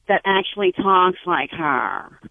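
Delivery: slow, drawn-out imitation of her accent; imitated Jeopardy contestant's accent. Caller imitating a relative's speech, drawn-out mock accent. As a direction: mimic the contestant's accent, not quite right. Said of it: "you're not doing the accent right".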